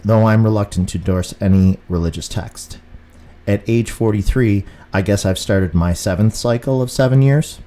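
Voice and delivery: steady, measured reading of his own book. Acted. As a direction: read the chapter aloud, evenly. Reads his book aloud.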